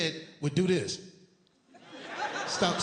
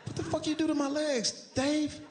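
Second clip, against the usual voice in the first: shocked disbelief; 10 semitones higher than usual. Retold or imitated. Shocked at his legs.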